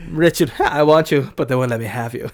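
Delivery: loud, hammed-up lovesick pleading; mock romantic plea. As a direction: ham it up like a romance hero. Mocking romance-movie plea to Richard.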